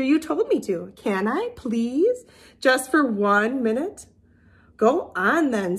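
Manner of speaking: lively storybook reading with character voices; reading to children. A narrator's reading. Teacher reading a picture book to her class. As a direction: read it to little kids with expression.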